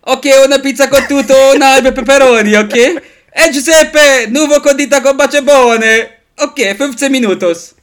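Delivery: loud, high mock Italian pizza-shop accent; hammed-up Italian pizzeria owner. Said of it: "Wie fandst du meinen italienischen Akzent". (laut übertriebener italienischer Akzent)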